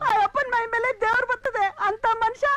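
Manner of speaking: high-pitched tearful scolding of her son. Acted. Mother scolds her lying son, high and tearful. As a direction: berate the son through rising tears. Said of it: "ಸರಿ, ಯಾಕೆ ಅಳ್ತಿದ್ಯಾ?".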